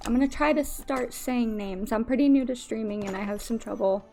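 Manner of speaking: speaking with missing front teeth. Real, not acted. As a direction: talk through a gap in your front teeth. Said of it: "just lost my front teeth recently".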